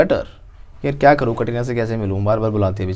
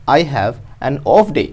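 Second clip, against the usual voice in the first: slow model sentence; 4 dB louder, much slower than usual. Shown as a demonstration. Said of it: "teacher models sentence slowly".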